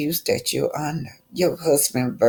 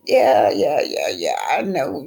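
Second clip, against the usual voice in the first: mocking dismissal.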